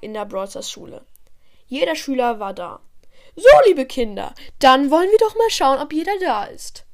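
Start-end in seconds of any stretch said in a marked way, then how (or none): 3.3-6.8 put-on loud teacher voice calling out to the children; loud, chirpy teacher addressing pupils; teacher calling the class. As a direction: call the class to order like a teacher.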